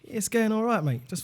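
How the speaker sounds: put-on mate small talk, slightly Australian; Australian-sounding accent. Playing a sweet mate chatting, Australian-sounding accent. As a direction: chat like a mate, drifting into Australian. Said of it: "Seriously, you sound Australian".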